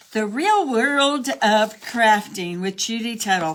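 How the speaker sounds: a hint of a grand announcer; half-joking title read; mock show title. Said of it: "That's what I should call this".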